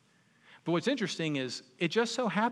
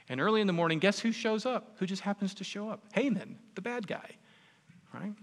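teasing reveal; 6 semitones higher than usual. Real, not acted. Preacher teasing the twist.

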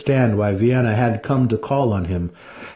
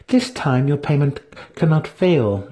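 commanding priestess; 7 semitones higher than usual. A narrator's reading. Priestess instructing the wizard, high and commanding. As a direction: give the order from above. Vienna voiced.

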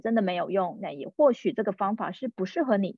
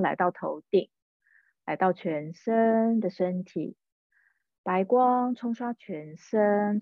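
guided meditation. Acted. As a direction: ease the listener into relaxing. Leads a meditation.

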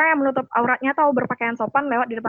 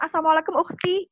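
higher-pitched imitated flirty greeting; teasing greeting catcall; 4 semitones higher than usual. Man catcalls a veiled woman passing, teasing greeting. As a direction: greet as a mock catcaller, last word lifted. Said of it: "itu juga catcalling loh".

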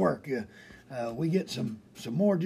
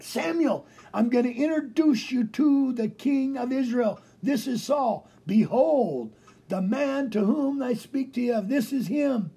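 excited God; 5 semitones higher than usual. Pretend. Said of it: "God's excited".

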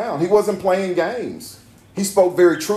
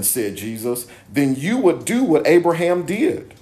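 emphatic Bible reading with punched key words; scripture reading. A narrator's reading. Preacher reading Jesus answering the crowd, emphatic scripture reading. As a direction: read the dialogue firmly, pausing between phrases. Reads scripture dialogue aloud.

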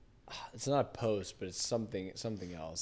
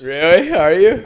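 loud, high-pitched incredulous question; 9 semitones higher, 21 dB louder than usual. Real, not acted. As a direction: burst out in disbelief, pitch leaping up. Disbelief at co-host keeping Twitter name.

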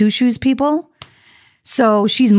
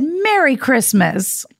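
sarcastic; 4 semitones higher, much slower than usual. Retold or imitated. Parting shot at the woman.

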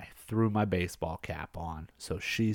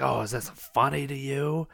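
slightly higher, put-on indignant question; mildly upset patient; 5 semitones higher than usual. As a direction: lightly imitate an offended challenge. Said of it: "she gets upset".

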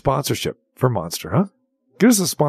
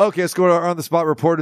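mock anchor throw; much faster than usual.

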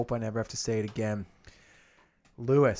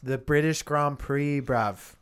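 put-on slowed, jokey London roadman accent; mock London slang; 3 dB louder, slower than usual. Friend hyping his Lewis Hamilton bet, mock London accent. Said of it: "stop using the fucking accent".

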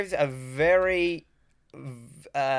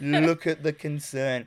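quoted line; slower than usual. Retold or imitated. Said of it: "What a line".

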